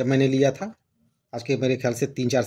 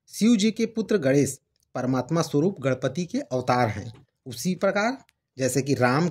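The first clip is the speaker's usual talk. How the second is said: measured reading of a devotional text; formal Hindi scripture-book reading; formal read-aloud; 3 semitones higher than usual. Acted. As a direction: read the preface out clearly, phrase by phrase. Reads book's preface aloud.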